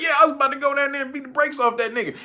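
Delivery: fast, laughing mock brag; excited boast. Mullen boasting to the interviewer, fast laughing brag. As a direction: rattle it off grinning. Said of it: "He was like".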